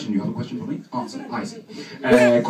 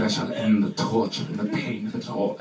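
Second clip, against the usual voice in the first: mock tragic Hamlet; 3 semitones lower than usual. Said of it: "I could have played Hamlet".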